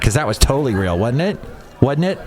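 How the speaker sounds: mock-sincere sarcasm; facetious. Real, not acted. Host doubting the Russian caller was real, facetious. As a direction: pretend to be convinced, fishing for agreement. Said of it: "he's being facetious".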